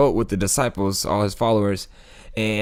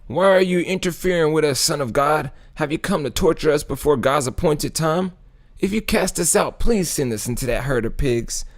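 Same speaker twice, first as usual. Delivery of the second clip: mock screaming; 5 semitones higher than usual. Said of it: "they started screaming at him".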